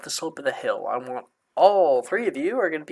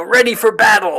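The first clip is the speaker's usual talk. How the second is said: mock battle cry; 6 semitones higher, 9 dB louder than usual.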